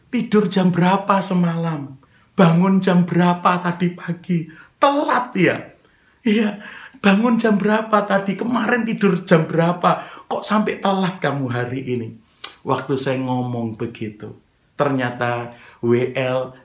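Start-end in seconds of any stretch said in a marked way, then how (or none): 0.1-12.1 raised, pressing interrogation; mock telling-off; acted scolding. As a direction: grill a latecomer, pitch climbing on the jab. Pastor re-enacts scolding the latecomer.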